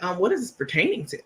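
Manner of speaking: fast, clipped mock-formal question; prim uppity reply. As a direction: play the stuck-up receptionist, quick and cool. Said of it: "y'all know I'm an uppity Negro".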